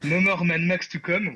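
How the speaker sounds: French speaker's self-conscious English accent; English accent attempt. Shown as a demonstration. Podcaster reads out a director's tweet, attempting an English accent. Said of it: "attention à mon accent anglais".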